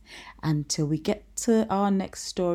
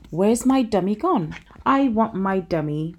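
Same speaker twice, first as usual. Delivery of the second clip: bossy little princess; 3 semitones higher, 5 dB louder than usual. Acted. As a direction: whine like a spoiled little girl. Princess whining for her dummy.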